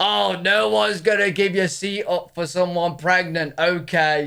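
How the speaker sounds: put-on slow, drawn-out shout. Retelling how someone on a bus reacted: imitating someone shouting. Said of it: "shouted at the bus".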